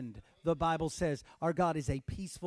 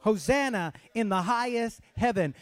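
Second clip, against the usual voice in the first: loud, high "Hosanna" ringing to the end; shouted praise; 5 semitones higher, 6 dB louder than usual. Shown as a demonstration. Pastor repeats the shout so the church joins in. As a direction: call it out full voice. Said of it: "Shout it".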